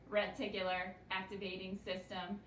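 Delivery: Reticular activating system in an even, mechanical robot voice, each syllable spaced. Shown as a demonstration. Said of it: "We say it like a robot".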